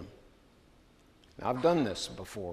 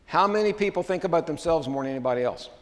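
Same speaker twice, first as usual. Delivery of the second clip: raised, emphatic question to the congregation; louder preaching; 6 semitones higher, 7 dB louder than usual. Real, not acted. Preacher challenging the congregation, louder. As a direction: press the question on the crowd, louder and higher.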